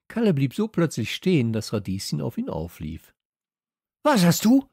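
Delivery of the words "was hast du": lauter, hoher Aufschrei; schreit. A narrator's reading. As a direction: Kalle schreit die Schwester an. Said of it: "schrie er seine Schwester an". (lauter, fassungsloser Schrei)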